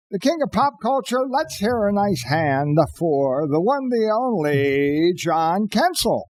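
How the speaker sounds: announcer intro. Acted.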